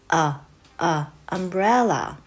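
slow, separate lax a, a, then umbrella; short U phonics sound. Shown as a demonstration. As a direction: model the loose first vowel of umbrella in a. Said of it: "脱力のあ".

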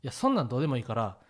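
brushing it off, rising loud at the end; cheerfully ignoring the scolding; dismissive husband. Retold or imitated. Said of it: "って言って".

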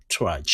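"trudge" as a single syllable, no added vowels; one-beat pronunciation. Shown as a demonstration. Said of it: "一拍で発音しましょう". (「trudge」を一拍で発音)

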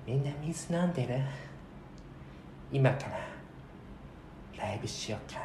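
soft, laid-back mumble; barely audible stage patter; quiet chill MC. Retold or imitated. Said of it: "ノリがチルすぎて".

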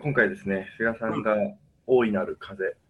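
stuffy nose from a cold; nasal voice. Real, not acted. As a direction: talk through a blocked, nasal nose. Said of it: "二人とも鼻声で".

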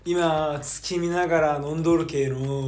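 comic Hiroshima dialect, building into laughter. Pretend. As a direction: play up a Chidori-like Hiroshima twang. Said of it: "なんでちょっと千鳥っぽくなってんの".

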